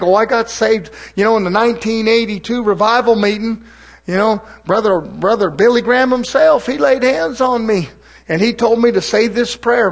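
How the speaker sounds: mock-excited revival testimony, pitch lifted in places. Preacher mimics churchgoer boasting of being saved again, mocking. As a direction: parody a gushing born-again testimony. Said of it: "I like mocking devilish stuff".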